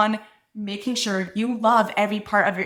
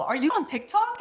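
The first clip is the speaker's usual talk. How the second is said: higher-pitched imitated excitement; excited fan question; 7 semitones higher than usual. Stylist's coworker recognizing her, excited question. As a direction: ask it like a thrilled fan. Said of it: "is so excited".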